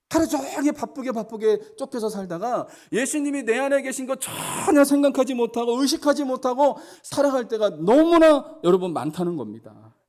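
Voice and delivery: full-force sermon voice; fervent preaching. Acted. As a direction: press the congregation hard from the pulpit. Sermon climax.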